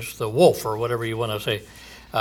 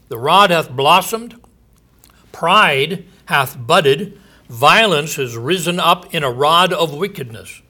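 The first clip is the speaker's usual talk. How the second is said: raised, ringing proclamation of doom; scripture reading. Acted. Preacher proclaiming judgment to his listeners, booming. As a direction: preach the verse out to the congregation.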